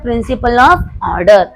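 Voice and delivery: very slow, drawn out; slow dictation. Shown as a demonstration. Teacher answering her own quiz question, slow. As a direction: lay out the name word by word. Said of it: "ऐसा कौन बोलता है?".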